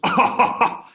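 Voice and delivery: exaggerated laughing glee; mock delight. Prospect absurdly loving having no time, mock delight. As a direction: gush it through a hammed-up laugh. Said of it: "No one ever goes".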